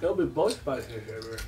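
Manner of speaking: talking through a mouthful; words around a bite of food; mouth full. Real, not acted. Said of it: "Sorry for speaking with my mouth full".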